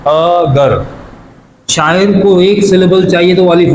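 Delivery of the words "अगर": "अगर" broken into two beats, अ then गर; split into syllables. Shown as a demonstration. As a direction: sound out "अगर" as अ, pause, गर. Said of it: "अगर में तो दो सिलेबल्स हैं".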